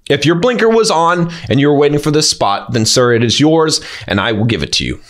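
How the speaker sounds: measured, composed reply in an even tone; calm and contained. Shown as a demonstration. Coach models a reply to an angry driver, calm and contained. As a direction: demonstrate staying calm and contained. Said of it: "You can be calm and contained".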